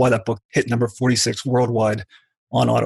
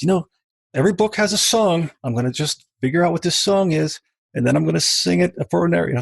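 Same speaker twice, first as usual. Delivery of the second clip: poetic artist; 6 semitones higher than usual. Retold or imitated. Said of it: "that's how he talks, real poetic and artist".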